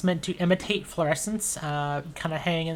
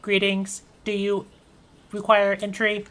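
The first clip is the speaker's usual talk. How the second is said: robot voice; 3 semitones higher than usual. Acted. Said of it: "This robot looks at you and says".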